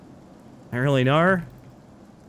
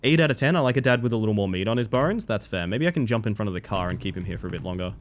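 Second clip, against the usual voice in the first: ordinary delivery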